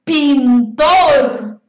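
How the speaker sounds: each word spaced out and repeated in threes. Shown as a demonstration. Teacher drills vocabulary to class.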